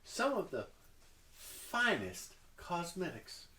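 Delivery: lightly voiced shopkeeper, slow and drawn out; shopkeeper's sales pitch. Game master as shopkeeper pitching her wares, slow sales pitch. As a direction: linger over the wares as a seller.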